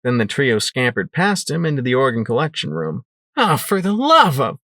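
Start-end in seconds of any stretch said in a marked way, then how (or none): 3.4-4.6 growl. Acted. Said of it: "I growled".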